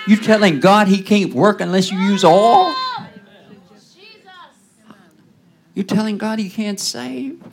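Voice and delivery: shouting and half-laughing at the absurdity; incredulous preaching shout. Acted. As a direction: throw the challenge at them. Preacher challenging the congregation.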